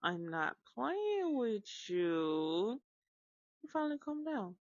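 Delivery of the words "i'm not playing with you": stern slow mom warning; slow firm warning. Retold or imitated. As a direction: lay down the law slowly.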